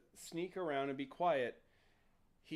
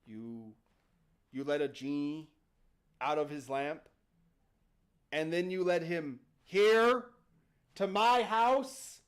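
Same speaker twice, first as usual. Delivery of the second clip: low, halting disbelief building louder; seething dad; 3 semitones lower, 3 dB louder than usual. Acted. Dad confronts boy for bringing genie home, seething. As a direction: start low and let the outrage rise. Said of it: "And Dad stands up".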